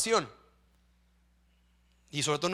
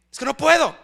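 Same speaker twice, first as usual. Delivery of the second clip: mock whining complaint; 7 semitones higher, 8 dB louder than usual. Mocks a weak believer's complaint.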